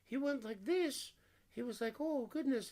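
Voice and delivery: high, manic Joker cackle voice. Retold or imitated. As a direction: play it like a cartoon Joker. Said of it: "came across as almost like the Joker".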